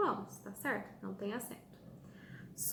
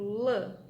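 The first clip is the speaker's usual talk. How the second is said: lã said louder, open vowel; open strong sound; 7 dB louder than usual. Shown as a demonstration. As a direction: stress lã with a wide open mouth. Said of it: "ele é aberto".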